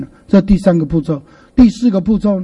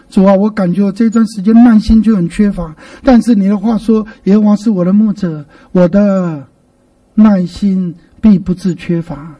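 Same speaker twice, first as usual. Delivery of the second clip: sincere prayer, slowing at the end; personal prayer demo. Shown as a demonstration. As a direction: confide in God, then claim the verse. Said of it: "把你自己跟目前的情境融化进".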